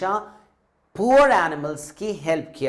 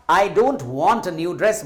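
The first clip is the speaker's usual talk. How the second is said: reluctant refusal; much slower than usual. Acted. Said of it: "Neena ने क्या कहा?".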